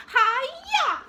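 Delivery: loud high hi-ya; karate shout. Acted. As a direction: chop the air with a yell. Karate chop at dragon.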